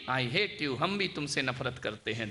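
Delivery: mountain echo. Retold or imitated. The mountains echo the child's shout. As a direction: let it come back from far away. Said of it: "आवाज आई".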